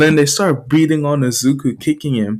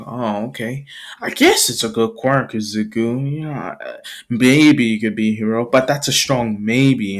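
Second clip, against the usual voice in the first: lower, understated concession; grudging approval; 4 semitones lower than usual. Acted. Rival gives grudging approval.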